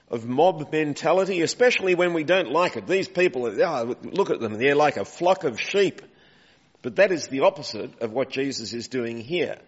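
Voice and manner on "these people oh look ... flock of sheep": mock contempt. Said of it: "It's used with contempt".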